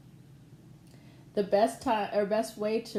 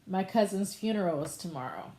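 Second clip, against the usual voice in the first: sad. Shown as a demonstration. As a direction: say it like bad news. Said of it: "I'm gonna say that differently than".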